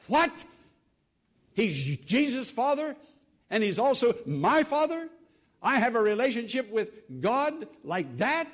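as if it just dawned on him, marvelling; amazed wonder. Acted. Preacher to congregation, amazed at being God's child.

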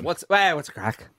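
light Irish twang, trailing off soft; Irish accent. Retold or imitated. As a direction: slip into a faint Irish accent. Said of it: "are you doing the accent".

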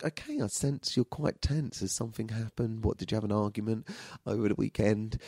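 quiet, careful probing; hushed, soothing session voice; soft-spoken therapist. Retold or imitated. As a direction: imitate a counsellor gently coaxing a client. Therapist voiced probing tense client.

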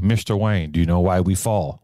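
put-on lightly done British butler accent; a hint of British butler, mock solemn; Alfred accent. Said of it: "my perfect Alfred accent".

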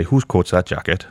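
slow Welsh lilt on the phrase; a light Welsh accent, drawn out. Shown as a demonstration. Showing the host a Welsh phrase in a slow Welsh accent. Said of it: "I can do the Welsh accent".

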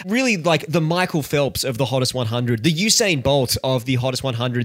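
light sportscaster read, rising toward the end; sports commentator voice. Acted. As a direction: analyse it like a TV sports pundit. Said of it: "Can I stop doing this sports commentator voice?".

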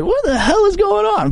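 bewildered imitation of Micah Parsons; mock bewilderment. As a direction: play the puzzled co-host. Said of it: "Micah Parsons is like".

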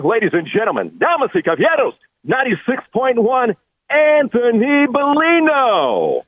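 lucha libre announcer. Acted. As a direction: announce him like a title fight. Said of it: "man, I love that".

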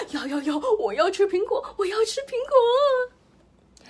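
greedy wolf begging the pig for apples. A narrator's reading. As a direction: beg for apples like a hungry wolf. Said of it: "大灰狼馋得直点头".

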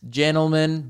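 "Gentleman" with the T left out; T dropped in gentleman. Shown as a demonstration. Host showing his lazy habit, "Gentleman" without its T. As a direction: say "Gentleman" as "jennleman". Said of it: "I just think I hate T's".

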